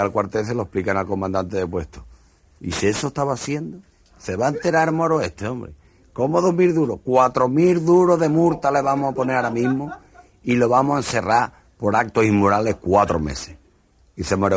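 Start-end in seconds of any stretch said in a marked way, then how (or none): 2.6-13.6 much higher indignant scolding; outraged commander. Acted. Post commander outraged at the Moor's offense. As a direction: pile on the punishment.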